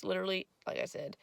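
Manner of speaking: hoarse, just woke up; raspy morning voice. Real, not acted. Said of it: "Sorry about the raspy voice".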